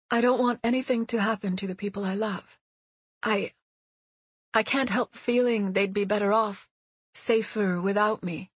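put-on a nervous young woman recalling. Seti confides fear.

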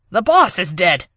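loud alarmed report; alarmed shout. Acted. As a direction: blurt out the shock. Henchman shouting news.

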